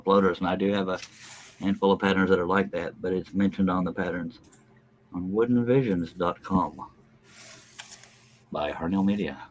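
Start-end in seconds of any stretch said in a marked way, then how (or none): 5.1-9.4 slow, deliberate ad read; commercial voice. Acted. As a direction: announce it like a commercial. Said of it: "That's my commercial voice".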